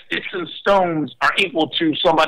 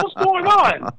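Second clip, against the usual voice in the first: retold alarm; 14 semitones higher, slower than usual. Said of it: "I said".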